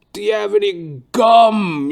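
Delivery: put-on high, loud, drawn-out old man's groan. Barber suddenly groans mid-haircut, high moan. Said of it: "He goes".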